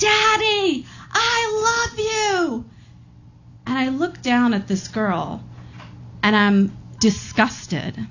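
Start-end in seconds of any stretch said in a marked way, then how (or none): 0.0-2.6 put-on very high, very slow child's scream. Retelling a little girl at the window screaming to her daddy: retelling a scream. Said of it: "she screams".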